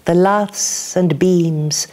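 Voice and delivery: measured, dramatic poem reading; poetry reading. Acted. Poet performing a crazy lady's blues song poem, measured and dramatic. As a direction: let each image land for the room. Reads Langley Chapel poem aloud.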